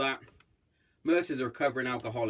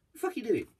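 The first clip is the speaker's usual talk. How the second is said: mock angry missus; 10 semitones higher, much faster than usual. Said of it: "she was like".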